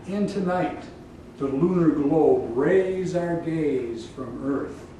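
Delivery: measured, solemn epic invocation; poem recitation. Acted. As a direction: recite it as a prayer to the Muse.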